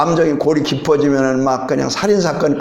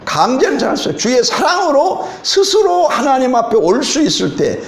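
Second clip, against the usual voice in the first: raised, fervent preaching voice; 3 semitones higher than usual. Acted. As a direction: preach it to the congregation with conviction. Preaching the message.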